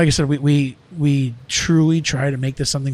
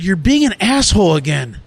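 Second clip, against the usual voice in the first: retold angry rebuke; 3 semitones higher, 5 dB louder than usual. Acted argument, employee rebukes boss.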